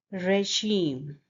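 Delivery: "regime" as ray-ZHEEM, weight on the end; stress on second syllable. Shown as a demonstration. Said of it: "the stress is on the".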